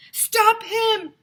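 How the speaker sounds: high loud shout. A narrator's reading. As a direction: call out after him. Crowd calls after limo.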